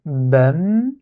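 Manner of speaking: "bam" alone, humming on the final m; syllable alone. Shown as a demonstration. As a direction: draw out "bam" as a separate syllable. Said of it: "Ça, c'est le deuxième".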